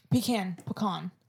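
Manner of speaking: "pecan" as PEE-can, then puh-KAHN; two pronunciations of pecan. Shown as a demonstration. Host offering another example, saying "pecan" two ways. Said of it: "What's another one?".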